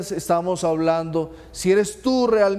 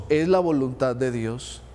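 resigned refrain; 5 semitones lower than usual. Retold or imitated. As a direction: drop the voice like a shrugging believer. Mocking a fatalistic refrain.

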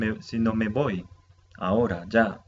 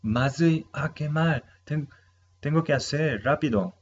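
panicked oh no; 5 semitones higher than usual. Retold or imitated. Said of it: "Cuando me acuerdo que".

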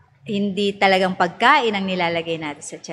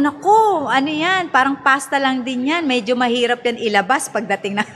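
mock alarmed mother; 3 semitones higher than usual. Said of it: "Sabi ko".

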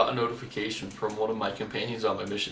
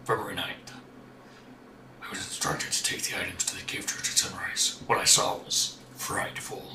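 a lightly lowered voice reading a diary; deepest voice. Pretend. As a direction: read the notes in your deepest voice. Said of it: "deepest voice you can".

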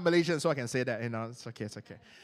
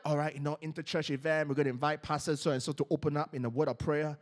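event host; 7 semitones lower, 4 dB quieter than usual. Acted. Voicing a church event host.

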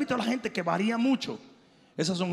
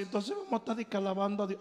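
bored complaint; 4 dB quieter, much faster than usual. Retold or imitated. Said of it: "Esos tipos van a decir".

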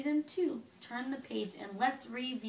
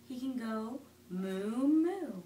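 cow moo; 3 semitones lower, much slower than usual. Acted. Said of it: "He can sound like a cow".

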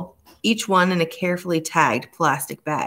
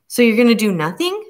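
higher, louder indignant snap; snapped; 6 semitones higher, 5 dB louder than usual. A narrator's reading. Elizabeth snaps at the inspector for doing nothing, sharp retort. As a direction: bite the words out in disbelief. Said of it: "Elizabeth snapped".

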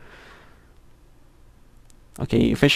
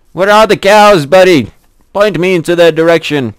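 playful pet voice; 5 semitones higher, 6 dB louder than usual. Real, not acted. Asking a bunny for cows.

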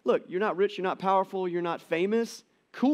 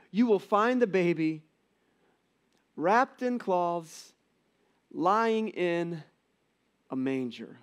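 Linus recitation. Retold or imitated. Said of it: "he basically quotes this".

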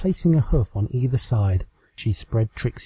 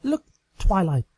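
high, pleading mare voice; pleading Trixie; 9 semitones higher than usual. Acted. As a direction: beg her to listen. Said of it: "Trixie said".

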